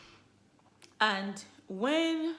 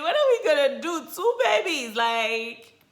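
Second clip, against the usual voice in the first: high, loud frantic cry; panicked shout; 6 semitones higher, 9 dB louder than usual. Retold or imitated. Husband freaking out over twins, loud and high. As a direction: keep yelling in alarm. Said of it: "That was what he, this guy was saying".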